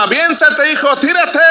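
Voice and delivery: high-pitched urgent call; father's retold yell. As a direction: imitate a papá calling up to his son. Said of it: "Papá le gritaba".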